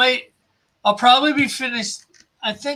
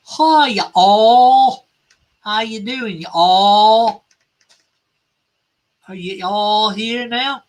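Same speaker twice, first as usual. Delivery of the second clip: drawn-out Southern "y'all" greeting; Southern accent; 5 dB louder than usual. Acted. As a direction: greet everyone in a broad Southern accent, stretching the vowels. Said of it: "That's just a Southern accent".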